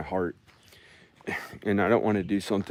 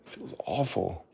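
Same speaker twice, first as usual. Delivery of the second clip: whisper; 8 dB quieter than usual. Real, not acted. Whispered complaint.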